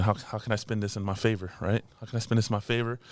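scheming inner voice. Retold or imitated. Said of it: "my brain started thinking".

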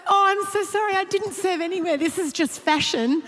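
can barely get the words out for laughing; laughing through a quote. Real, not acted. Retelling the makeup girl's reply to the nuns, laughing.

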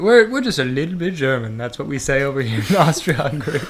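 put-on improvised, lightly German Austro-Hungarian accent. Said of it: "don't know what the accent sounds like exactly".

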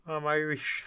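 put-on Irish lilt; Irish accent. Denying being British to a friend, put-on Irish accent. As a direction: try a light Irish accent. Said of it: "That wasn't a bad Irish accent".

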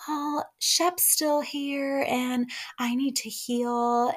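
high, slow, drawn-out mimicry; mock her struggling to get words out; halting speech. Taylor making excuses to her admirer, mock halting speech. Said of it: "Taylor has a hard time speaking".

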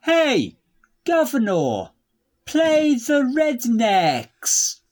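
slow, over-enunciated command to a smart speaker; slowed for the device. Acted. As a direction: spell it out slowly so the machine understands. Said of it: "it's my accent".

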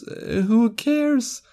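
high, drawn-out scoffing question; dismissive. Real, not acted. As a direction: wave it away with contempt. Dismissing the small talk.

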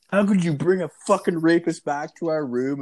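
high, loud mock-indignant demand; retold outrage. Retold angry confrontation with friend.

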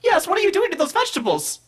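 very high robot voice, appalled; horrified robot. Acted. Robot appalled at the cook's chopping, very high. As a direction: squeak it out like a shocked robot.

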